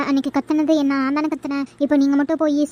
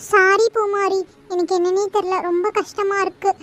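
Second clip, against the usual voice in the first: crying. Real, not acted. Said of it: "இவ என்னடி இதுக்கெல்லாம் அழுகுறா?".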